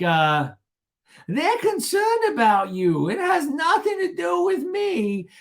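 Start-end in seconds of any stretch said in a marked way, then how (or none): 1.3-5.3 high, drawn-out mock whine; hammed-up insistent protest; Gina. Gina telling Shannon they're concerned, mock whine. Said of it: "and Gina's like".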